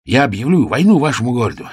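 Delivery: gruff king barking out a threat of war; loud, fast royal threat; king shouting. Acted. King threatens the page's city, loud. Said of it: "ещё громче закричал король".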